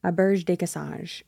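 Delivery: "Auberge de Cassange" said smoothly at normal speed, proud of getting it; confident retry of "Auberge de Cassange"; careful French name. Shown as a demonstration. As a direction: prononciation française soignée. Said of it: "Ooh, I said it right".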